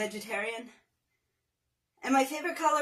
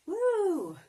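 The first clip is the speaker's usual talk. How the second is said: woo; 8 semitones higher than usual. Real, not acted. Cheer after finishing set.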